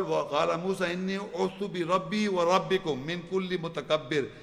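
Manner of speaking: fast chanted Arabic verse; Quran recitation. Acted. Preacher reciting Moses' verse for the congregation, chanted. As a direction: recite the ayah in a flowing chant.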